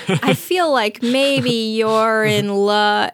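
slow, teasing; knowing tease. Retold or imitated. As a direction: drag it out slowly, teasing him. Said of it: "he says".

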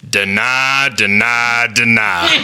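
drawn-out, emphatic coach's instruction; imitated coach. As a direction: punch each word slowly, with a pause after each. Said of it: "he goes".

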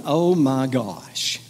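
very slow, drawn-out disbelief; mock exasperation. Wedding guest at the back reacting to vows, mock exasperated. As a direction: stretch every word like a fed-up guest.

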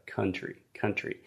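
country with one short vowel; country with a single schwa. Shown as a demonstration. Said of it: "should simply be one vowel sound".

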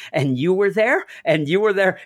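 high, wondering Dorothy quote; hamming up a dazed Dorothy; mock Dorothy. Retelling the film, mock Dorothy waking up. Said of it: "she's like".

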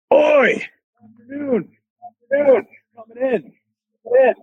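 high, mock-scolding boss calling out a late arrival; sarcastic boss. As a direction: sneer "afternoon" like the boss catching him late. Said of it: "that's sort of what he said".

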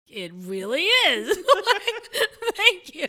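high laughing through the words; laughing agreement. Real, not acted. Remembering the meeting with the minister, laughing aloud. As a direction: let the laugh spill over the words.

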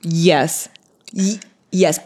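breathy whispered confession; whispered yes. Real, not acted. Host admitting to co-host, whispered guilty yes.

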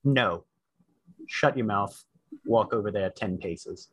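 low, curt commanding orders; drill sergeant. Acted. GM character orders Sal away.

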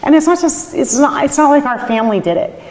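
real, high, choked insistence. Real, not acted. Winemaker crediting everyone for the shared work, choked up. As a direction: push the words out past rising tears. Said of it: "I wish I could talk".

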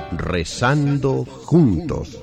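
normal talking voice

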